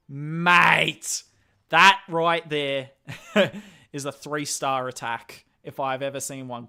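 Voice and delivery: put-on hushed, slow Australian-accented "Mate, that right there"; a put-on Australian accent, whispered for effect; mock Aussie whisper. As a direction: lean into a jokey Australian drawl, breathy. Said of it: "do an Aussie accent all day".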